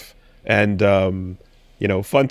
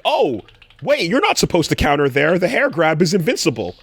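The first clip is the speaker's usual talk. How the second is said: higher-pitched startled protest; mock surprise; 4 semitones higher than usual. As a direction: play a fan caught off guard. Acting surprised viewer objecting.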